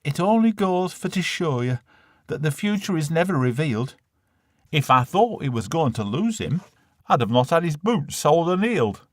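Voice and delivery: a glum northern mum; Lancashire mum voice. Acted. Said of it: "Said Ma".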